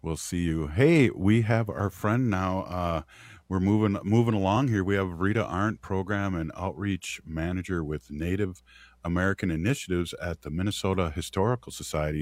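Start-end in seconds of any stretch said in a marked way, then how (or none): 4.8-12.2 long title read out on a single breath; all in one breath. Real, not acted. Host introduces the program manager, all in one breath. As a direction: run the whole title through in one go. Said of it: "I said that all in one breath".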